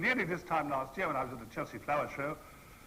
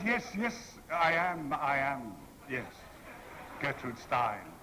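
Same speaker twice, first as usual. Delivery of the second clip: put-on emphatic elderly lesbian; slower than usual. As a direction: play along as a lively old lady. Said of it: "deepening my voice to give her the impression".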